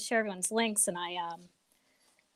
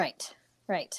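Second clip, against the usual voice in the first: whispering; 3 semitones lower, 8 dB quieter than usual. Real, not acted. Quiet agreement.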